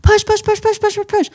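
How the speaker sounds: high, urgent coach chant; athletic coach. Retold or imitated. Imitating her OB coaching her through the pushes. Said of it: "She's an athletic coach".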